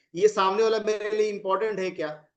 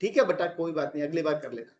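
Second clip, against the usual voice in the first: softer, reassuring parent voice; gentle with child; 4 semitones lower, 3 dB quieter than usual. Shown as a demonstration. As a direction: soothe the child kindly. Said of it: "आपका बच्चा भी तो गलती किया".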